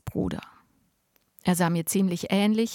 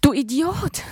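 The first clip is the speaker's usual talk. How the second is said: high, loud, breathless outburst; angry outburst at brother; panting insult; 7 semitones higher, 5 dB louder than usual. A narrator's reading. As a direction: gasp it out in fury. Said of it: "keuchte ich".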